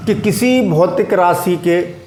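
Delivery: slow, deliberate dictation pace. Shown as a demonstration. Teacher dictating a definition to students, slowly. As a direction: spell it out slowly so they can write. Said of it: "मैं धीरे-धीरे बोल रहा हूँ".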